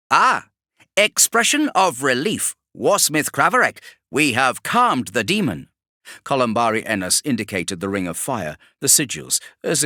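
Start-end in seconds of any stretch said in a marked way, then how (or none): 0.1-5.7 much higher and louder, relieved tech-priest; a cringing servant blurting relief; relieved nervous Magos. Acted. Columbari Ennis greets the warsmith, relieved and nervous.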